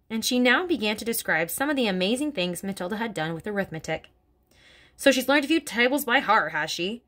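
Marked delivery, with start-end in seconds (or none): 5.0-7.0 a bit higher and louder sneering bark; mild bark. Acted. Headmistress scoffing at Miss Honey, mild bark. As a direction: bark the question back. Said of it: "Miss Trunchbull barked".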